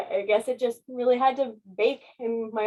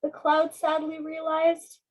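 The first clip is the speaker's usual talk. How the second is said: put-on lively read-aloud for children; story narration. A narrator's reading. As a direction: read it like a bedtime picture book. Reading picture book aloud.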